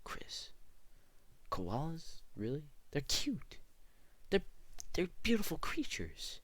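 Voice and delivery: high mock-sweet viewer voice; imagined viewer. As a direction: play the doting koala fan, all gushing. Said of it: "I know what you're thinking".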